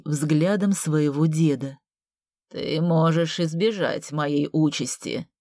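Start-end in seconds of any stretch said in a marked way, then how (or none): 2.5-5.3 hoarse voice. Acted. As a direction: rasp it out weakly. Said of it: "хриплым голосом сказал он".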